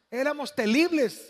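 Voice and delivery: imitated Chinese accent, L for R; lightly put-on Chinese accent, r turned to l; mock Chinese accent. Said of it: "dice el chinito".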